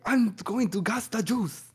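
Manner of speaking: slow, high mock German dictator voice; hammed-up German accent, drawn out; Hitler. Podcaster imitating Hitler in a comedy bit, slow high German accent. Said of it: "He's like".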